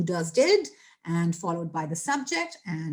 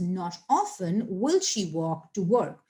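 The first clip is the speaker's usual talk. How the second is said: Not often set out slowly and deliberately; slow model sentence, weight on Not often; emphatic inversion; slower than usual. Shown as a demonstration. Teacher showing how it becomes emphatic, slow stress on Not often. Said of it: "emphatic sentence".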